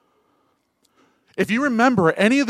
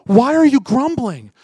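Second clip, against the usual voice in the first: higher and louder, pressing the question; forceful preaching; 9 semitones higher, 8 dB louder than usual. Acted. Preacher challenging believers who grumble about grace, loudly. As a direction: hammer the question at the crowd.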